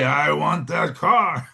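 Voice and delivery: slow, put-on villain baron voice. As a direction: drag it out like a greedy baron. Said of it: "Let me hear you say".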